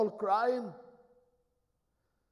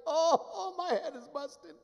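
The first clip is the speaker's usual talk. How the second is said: crying out in pain; 10 semitones higher than usual. Acted. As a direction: ham up the pain, rolling and groaning. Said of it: "he started screaming with pain".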